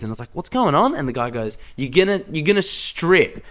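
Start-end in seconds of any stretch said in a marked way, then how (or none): 0.3-1.0 high, startled question; baffled. Retold or imitated. Caught on stage, asking what's happening in a high startled voice. 1.8-3.4 high, put-on host voice; mock announcer. Announcer telling the stage guys they'll strip, hammed-up high host voice.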